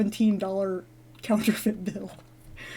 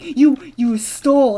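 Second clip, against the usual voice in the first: slow, louder retold accusation; mock mad; 2 semitones higher, 5 dB louder, slower than usual. Little woman accusing the dreamer of stealing, mock mad. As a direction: imitate an angry accuser. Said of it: "she got so mad".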